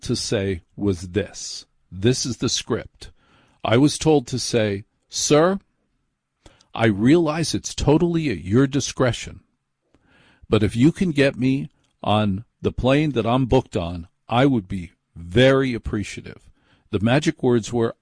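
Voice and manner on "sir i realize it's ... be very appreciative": smooth, persuasive announcer read; convincing radio voice. Retold or imitated. Pleading with the TSA agent in a persuasive radio voice. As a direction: sell it like a radio host. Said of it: "with a certain amount of convincing and a radio voice".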